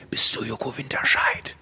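soft, slow whispered question. Retold or imitated. A young girl in a clothing store secretly asking Joko, soft whisper. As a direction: whisper it so nobody hears. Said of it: "hab dann auch geflüstert".

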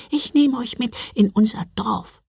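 very high tiny creature voice; squeaky little cookie man; gingerbread man voice. Acted.

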